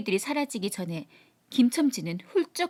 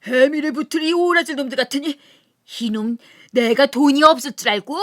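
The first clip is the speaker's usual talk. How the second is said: put-on loud, furious drunken outburst; sudden rage; 4 semitones higher, 8 dB louder than usual. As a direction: explode at them. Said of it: "화를 버럭내며". (버럭 화내며 크게 소리침)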